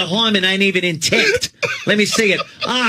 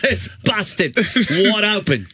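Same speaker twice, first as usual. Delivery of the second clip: put-on Aussie crikey; hammed-up Australian crikey; mock Australian crikey; slower than usual. Australian impression.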